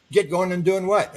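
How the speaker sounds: mock-indignant cry of confusion; indignant question. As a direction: fire back, baffled and put out. Retold protest to the beings.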